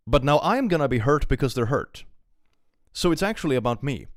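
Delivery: put-on loud, high caricature of a self-centred girl; mocking self-pity. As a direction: parody her making it all about herself. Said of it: "you're getting into that territory where it's like".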